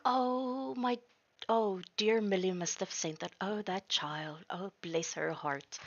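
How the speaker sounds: a hint of a tender grandma; touched old lady. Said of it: "she's like".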